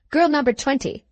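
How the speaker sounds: a hint of a stern teacher singling out a pupil; stern schoolmaster calling out. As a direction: call the girl out, sharp and firm. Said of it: "said Mister Gradgrind".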